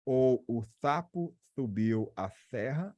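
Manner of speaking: "sapo subiu a serra" lisped, tongue on teeth; slushy sh for s. Shown as a demonstration. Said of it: "imitando quem tem língua presa".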